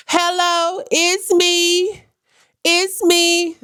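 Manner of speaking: high, playful sing-song greeting; mock cheery intro in a high sing-song; sing-song hello.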